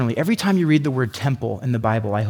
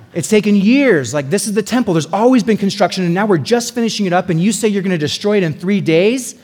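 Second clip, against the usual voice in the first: higher, louder incredulous outrage; mock indignant crowd; 6 semitones higher, 5 dB louder than usual. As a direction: ham up the proud crowd's disbelief. Voicing the Jews' indignation.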